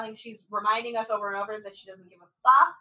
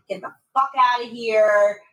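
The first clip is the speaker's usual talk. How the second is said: mock yell, louder at usual pitch; retold scream; 5 dB louder than usual. Retelling his fight with her, mock screaming. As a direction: punch out his order as an imitation. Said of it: "Where he's screaming".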